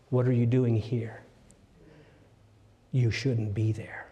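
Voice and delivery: God's gentle whisper. Acted. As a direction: whisper the question tenderly. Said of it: "God says the very same question".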